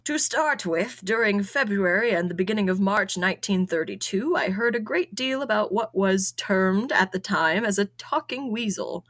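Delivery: lightly voiced letter writer; improvised letter-writer voice. Guessing at a letter writer's voice, lightly put-on character read. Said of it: "I'm just gonna go with it".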